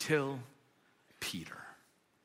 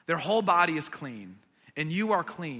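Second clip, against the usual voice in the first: gentle correction; 2 semitones lower than usual. Retold or imitated. Jesus calmly redirecting Peter's excess, gentle. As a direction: gently settle an overexcited friend. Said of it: "gently kind of discourages".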